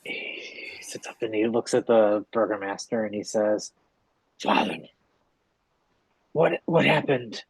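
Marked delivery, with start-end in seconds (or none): 4.4-7.4 put-on confused revived boy. Revived boy asks his father.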